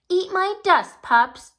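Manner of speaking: high, loud gloating taunt; sneaky racer taunt. A narrator's reading. The sneaky cheetah taunting the pups at the start, loud and gloating. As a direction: jeer at the pups as she speeds off. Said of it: "she said".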